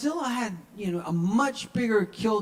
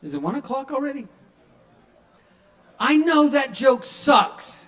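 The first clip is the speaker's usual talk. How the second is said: self-mocking; 9 semitones higher, 7 dB louder than usual. Real, not acted. Self-mocking after bad joke.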